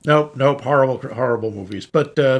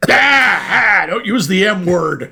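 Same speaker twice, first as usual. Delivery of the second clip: mock-alarmed cry, louder and higher; mock horror; 4 semitones higher, 4 dB louder, slower than usual. Co-host reacts to the forbidden M word, mock horror. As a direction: recoil loudly as if a forbidden word was spoken.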